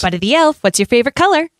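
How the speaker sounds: bright, eager Buddy the Elf voice; chirpy elf asking cheerfully; christmas elf. Shown as a demonstration. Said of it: "what is Buddy's key phrases".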